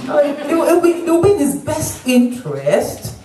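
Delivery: high, laughing mock doctor voice; imitating a courteous doctor, pitched high; polite British doctor. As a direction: soften the order into a gentle hint. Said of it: "That's how they speak".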